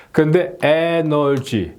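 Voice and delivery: energy as 에너지, no final consonant; energy said flat in Japanese mora style, no 받침; wrong mora energy. Shown as a demonstration. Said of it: "받침이 없어요". (받침 없는 에너지 발음)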